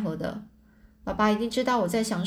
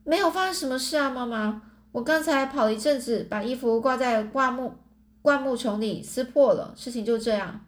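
higher, faster mock-innocent surprise; feigned surprise; 3 semitones higher than usual. Boy faking surprise to fool his mother, higher and quick. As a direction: fake astonishment to cover up. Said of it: "我装得像她一样惊讶地说".

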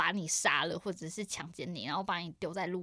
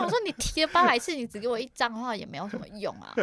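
retold protest; 4 semitones higher, 5 dB louder than usual. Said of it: "他说".

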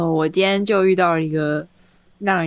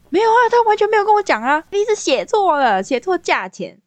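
惊讶否认；高八度、大声又急促地喊；老板吃惊地急着撇清；学老板又高又快地惊呼否认; 13 semitones higher, 4 dB louder than usual. Retold or imitated. 老板惊讶否认.

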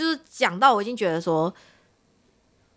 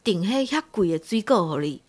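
indignant inner voice; 4 semitones higher than usual. Retold or imitated. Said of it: "我都心里想说".

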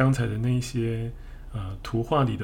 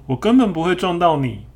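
high and louder, indignant; blaming apology; 7 semitones higher, 6 dB louder than usual. Acted. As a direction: push the blame loudly and high. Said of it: "这个河马说".

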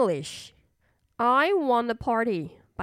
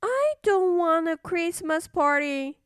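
bossy little princess; 6 semitones higher than usual. Acted. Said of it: "said the little princess".

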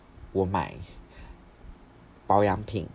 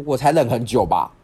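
loud, drawn-out mock outburst; angry retort; 3 semitones higher, 11 dB louder than usual. Sister shouting back at her brother, angry retort. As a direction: act out fed-up shouting back, slowly and loudly.

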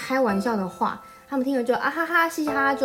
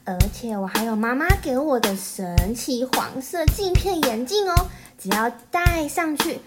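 excited little princess; 3 semitones higher, slower than usual. Acted. Plays the crocodile princess.

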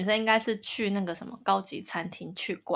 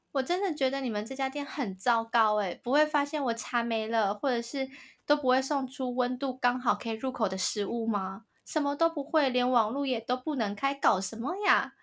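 mock angry outburst; 4 semitones higher than usual. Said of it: "这个女的就大爆发".

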